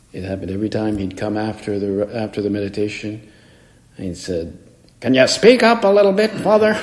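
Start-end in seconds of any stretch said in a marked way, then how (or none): 5.0-6.8 put-on much higher, loud old priest's call. Old priest asks the preacher to speak up, much higher and loud. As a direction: bellow it like a hard-of-hearing old priest. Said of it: "he would say it very loud".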